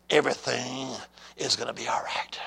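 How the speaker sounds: low, hushed voice of God; soft and low, falling away to a whisper; quiet divine reassurance. Retold or imitated. God answers his praying son, low and hushed. Quoting God's first answer to him.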